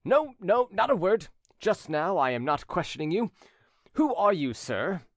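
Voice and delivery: the duke silences Angelique; angry duke. A narrator's reading. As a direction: refuse to hear her. Duke silences her angrily.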